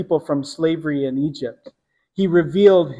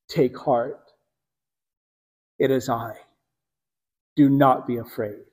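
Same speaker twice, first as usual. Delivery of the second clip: gentle reassurance; 7 semitones lower, 6 dB quieter than usual. Acted. Jesus calms frightened disciples.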